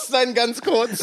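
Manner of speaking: drawn-out mocking. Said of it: "Don't say ganz kurz zu meinem ganz kurz".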